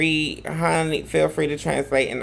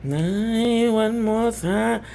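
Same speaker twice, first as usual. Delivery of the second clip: excited call; 8 semitones higher, much slower than usual. Real, not acted. Calling for the clip again.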